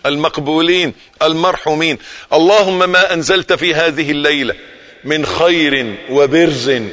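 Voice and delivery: earnest supplication, measured and slow; prayer. Acted. Preacher praying for the viewers, earnest supplication. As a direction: pray over the listeners with devotion.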